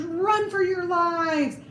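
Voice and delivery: high, slow panicked cry; scared scream. Acted. Mouse soldiers fleeing the dog's breath, high panicked cry. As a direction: shriek it in disgust and fright. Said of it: "screamed the soldiers".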